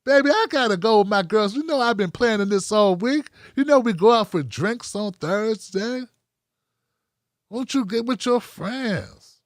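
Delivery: sassy, drawn-out brush-off; lightly voiced woman waving him off; dismissive girlfriend. Imitating a girlfriend brushing off her man to go out with her girls. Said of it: "She's like".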